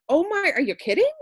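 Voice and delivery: high, loud amazed gasp; thrilled disbelief. Retold or imitated. To the girl with the bracelet charity, amazed and loud. Astonished at same campaign.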